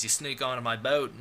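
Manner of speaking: badly faked British voice; mock British, lightly put on; attempted British accent. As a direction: have a clumsy go at a British accent. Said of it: "I gave him a British accent".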